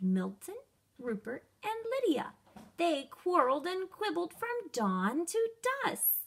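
put-on lively read-aloud for young kids; animated children's story voice; storytime narration. A narrator's reading. Reads a picture book to children.

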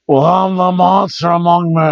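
half-hearted wrestler impression, held-out words; Braun. Quoting a wrestler's catchphrase, badly attempted voice. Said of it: "I can't do a Braun voice".

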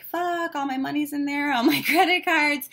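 high, panicked outburst; imitating a frantic client. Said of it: "And she's like".

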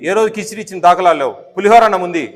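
normal talking voice

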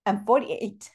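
tearful repeat, voice breaking; holding back tears on her age. Real, not acted. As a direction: say your age again through tears. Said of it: "I'm gonna get emotional".

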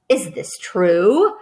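very slow, drawn-out question; lightly voiced greedy rat; eager rat. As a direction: savor the question like a hungry rat.

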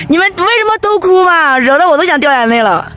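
high, plaintive, tears threatening; close to tears. Real, not acted. Traveller asks friends why all are crying, near tears. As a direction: plead as if about to cry.

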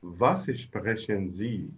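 very slow, falling at the end; slow model answer. Shown as a demonstration. Teacher models the answer for students, very slowly. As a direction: lay out each word for learners. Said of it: "برافو".

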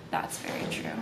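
breathy whisper, nearly no voice; whispered agreement. Retold or imitated. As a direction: whisper it as if conceding quietly. Agreeing with friend's advice.

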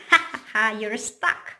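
read-out ha ha teasing; mild mock laugh; mock laughter. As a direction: laugh at him, then tease. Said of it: "Triangle laughed and laughed".

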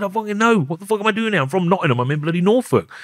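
high-pitched, exasperated outburst; exasperated retort. Retold or imitated. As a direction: throw the disbelief right back at him. Retold retort to custody manager.

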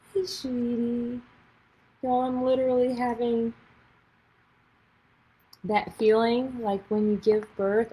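slow, teary, tender; choked up with joy; moved to tears greeting her book like a newborn; tearful. Real, not acted. Tearful first sight of book.

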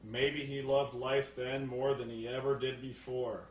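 low, measured mock voice-over; Harrison Ford. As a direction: imitate a detective narrating, slowing toward the end. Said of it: "He's like".

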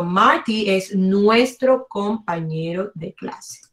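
slow, clear teacher repeat; slow model repeat. Shown as a demonstration. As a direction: spell it out slowly for the class.

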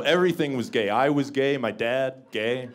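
ordinary talk

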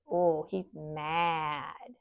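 slow, drawn-out mad; mock mad. Describing the angry picture, slowly. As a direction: stretch it out like an angry face.

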